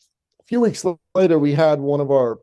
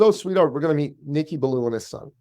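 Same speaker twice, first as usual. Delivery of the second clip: put-on mother to child; 4 semitones higher than usual. Mother answering her excited son.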